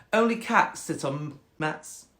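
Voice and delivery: slow, superior cat voice; snobby cat. Acted. Cat claiming the mats, snobby and slow. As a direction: correct the frog snootily. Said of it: "quite a snobby cat".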